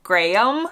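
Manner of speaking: Graham as Gray-um, unsure rise; Graham as Gray-um, questioning; attempted British Graham. Shown as a demonstration. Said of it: "I can't even do it".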